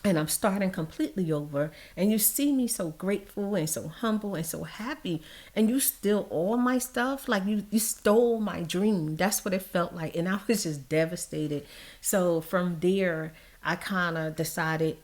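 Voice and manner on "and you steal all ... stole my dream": indignant disbelief. Retold or imitated. Indignant rant at the thieves.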